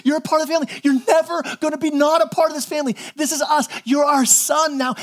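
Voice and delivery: high, insistent acted affirmation; imitated emphatic reassurance. Mom hugging her newly adopted son, imitated emphatic reassurance. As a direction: imitate a parent driving the promise home.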